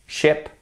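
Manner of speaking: first "sheep" short like ship, second long; short versus long. Shown as a demonstration. Teacher contrasts the vowels, "sheep" short, then long. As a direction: contrast a brief i with a drawn-out ee in "sheep, sheep". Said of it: "là, j'insiste un peu".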